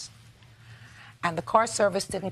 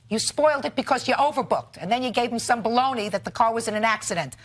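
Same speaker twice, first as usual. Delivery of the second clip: raised, higher-pitched rebuke; scolding; 4 semitones higher, 4 dB louder than usual. Real, not acted. Judge telling defendant they spoiled the evening, scolding. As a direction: lay into them, pitch up and gathering speed.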